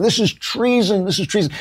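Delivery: a lightly hammed-up outraged chant; mock outraged crowd. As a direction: imitate angry people shouting treason. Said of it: "people just saying".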